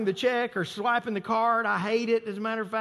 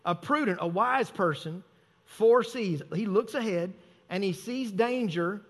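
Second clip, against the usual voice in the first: slow, deliberate scripture reading with pauses; slower reading. Shown as a demonstration. Pastor rereads the proverb to his congregation, slow and deliberate. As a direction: take each phrase slowly and let it land. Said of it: "read that one again and slow it down".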